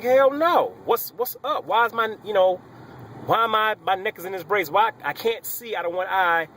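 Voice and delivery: alarmed outburst. Retold or imitated. Hurt patient demanding answers from doctor, alarmed. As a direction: fire off questions in a rising panic.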